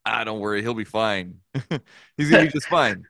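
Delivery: chuckling through an easy brush-off; laughing reassurance. Retold or imitated. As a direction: retell the promise while cracking up. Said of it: "I'm like".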